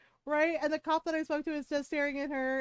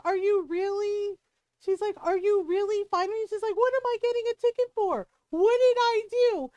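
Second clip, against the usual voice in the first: loud, higher indignant outburst; mock the neighbor's outraged protest; 6 semitones higher, 6 dB louder than usual. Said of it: "And she got mad".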